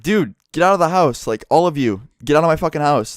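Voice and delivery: retold angry order. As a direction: act out an annoyed friend ordering people out. Friend orders girls out of house.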